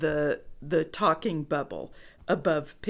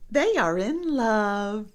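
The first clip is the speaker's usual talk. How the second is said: delighted piggy; 3 semitones higher than usual. A narrator's reading. Piggy smiling about lovebirds.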